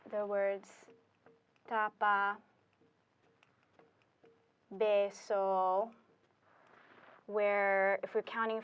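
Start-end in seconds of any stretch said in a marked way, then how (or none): 1.7-2.4 tapa with the stress on TA; next-to-last syllable stress. Shown as a demonstration. Teacher giving an example of the normal vowel-ending pattern, tapa stressed on TA. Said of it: "is on the next to last syllable". 4.8-5.9 beso with the stress on BE; next-to-last syllable stress. Shown as a demonstration. Teacher showing the normal pattern, beso stressed on BE. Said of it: "is on the next to last syllable".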